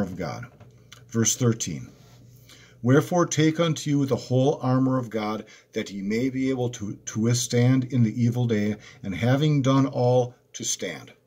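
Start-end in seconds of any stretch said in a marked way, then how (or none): 2.8-11.1 raised, solemn Bible reading; preacher reading Ephesians aloud; scripture reading. Acted. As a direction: read the verse out to the congregation.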